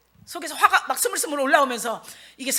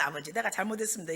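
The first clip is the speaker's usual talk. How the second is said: meek repentance; 4 semitones lower, 10 dB quieter, faster than usual. Acted. Models a humble prayer of repentance.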